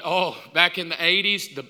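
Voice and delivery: mock swooning over the eighties; breathy fanning sighs, teasing the wife; imitating a wife swooning at a movie. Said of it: "with Robin going".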